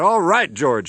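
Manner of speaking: calling out. Acted. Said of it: "he called into the microphone".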